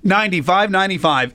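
slow, drawn-out number read; phone number read-out. Acted. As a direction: announce the number slowly. Radio host reading call-in number.

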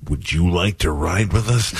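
lightly voiced wrestler, slowly drawn out; Randy Savage. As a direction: stretch the invitation out a little, wrestler-style. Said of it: "That's the way he".

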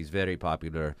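lightly voiced waiter with a thick Eastern European accent. Waiter telling a diner about a famous guest, Eastern European accent. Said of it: "thick accent".

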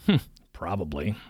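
low, dry smirk. A narrator's reading. Preacher smirking at the student's theory, dry. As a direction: say it with a knowing smirk. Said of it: "smirked Marnie".

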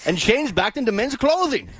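put-on laughing through a Scottish accent; Scottish brogue, breaking into giggles. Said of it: "The accent makes it so".

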